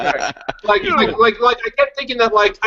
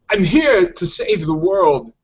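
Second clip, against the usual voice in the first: Christopher Walken impression; much slower than usual. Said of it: "I'll do Christopher Walken".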